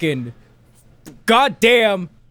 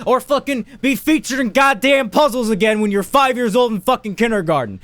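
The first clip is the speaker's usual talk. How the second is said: mock rant; 6 semitones higher than usual. Ranting mock suggestion.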